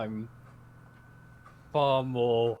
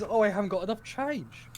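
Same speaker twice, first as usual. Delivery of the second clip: mock-whining mother, pitched up; imitated whine; 7 semitones higher than usual. Mother complaining to son about change, imitated whine. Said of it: "and you're whining".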